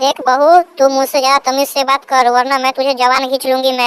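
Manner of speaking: very high-pitched quarrelling mother-in-law; threatening mother-in-law. Acted. Mother-in-law warns daughter-in-law to speak politely, threatening. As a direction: threaten her in a high put-on voice.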